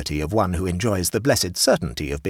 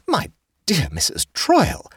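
a hint of a fussy higher hostess; lightly voiced hostess; 12 semitones higher, 4 dB louder than usual. A narrator's reading. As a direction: raise the pitch for the chatty hostess.

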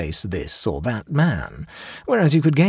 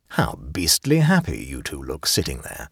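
lower-pitched, wistful envy; 8 semitones lower than usual. A narrator's reading. Angel Quinston greeting the seated pair, wistful. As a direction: sigh it out with understated longing. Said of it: "he said wistfully".

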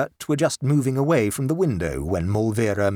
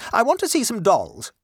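high, firm mother voice, scolding; a proper lady lecturing her boy; stern mother; 11 semitones higher, 3 dB louder than usual. Acted. Mother ordering her sulky son about, high and firm.

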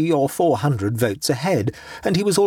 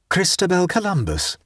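exclaiming; 7 semitones higher than usual. A narrator's reading. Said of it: "he exclaimed".

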